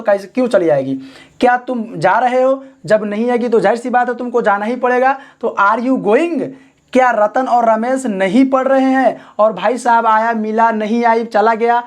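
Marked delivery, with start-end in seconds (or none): 5.6-6.5 very slow, word by word; dictating slowly to the class; slow dictation. Shown as a demonstration. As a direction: spell it out slowly for students. Dictating the English translation.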